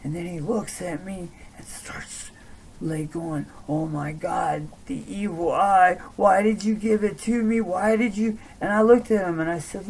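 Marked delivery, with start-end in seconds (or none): 3.7-8.4 mock panicked pleading, climbing higher; retold panic, rising in pitch; imitated freak-out. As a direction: act out someone freaking out, building to high, loud questions. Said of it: "he's freaking the fuck out".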